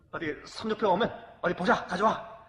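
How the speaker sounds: 딸 성적표 보고 높고 크게 언성 높이는 아빠; 성적표를 보며 호통치듯; scolding father. Retold or imitated. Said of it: "제가 이렇게 했습니다". (딸 성적표를 보고 꾸짖는 아빠, 큰 소리로 호통)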